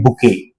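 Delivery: बुके with a silent t; correct bouquet pronunciation. Shown as a demonstration. Teacher gives students the correct reading, बुके without t. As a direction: end बुके on an open 'ay' sound. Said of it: "इसको आपको पढ़ना है bouquet".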